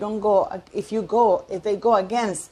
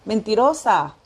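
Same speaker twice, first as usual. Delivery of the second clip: Spanish word. Shown as a demonstration. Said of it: "how do you say liar".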